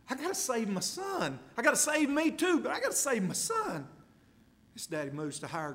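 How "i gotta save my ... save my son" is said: desperate father. Acted. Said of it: "This daddy's concerned about his boy".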